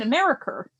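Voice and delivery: "America" with an R on the end; New England R. Retold or imitated. Recalling teacher's speech, "America" with final R. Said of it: "put R's on the end of her A's".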